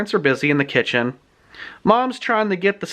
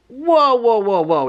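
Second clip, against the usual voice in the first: startled whoa; 5 semitones higher, slower than usual. Retold or imitated. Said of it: "she's like".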